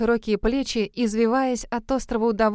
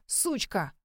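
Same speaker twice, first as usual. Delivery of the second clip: desperate shout; 7 dB quieter than usual. A narrator's reading. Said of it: "отчаянное".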